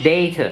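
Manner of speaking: "data" with a stressed "ay" first; common DAY-ta pronunciation. Shown as a demonstration. Streamer demonstrates for viewers, "data" said DAY-ta. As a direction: model "data" as DAY-ta, on its own. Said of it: "ประมาณเนี้ย".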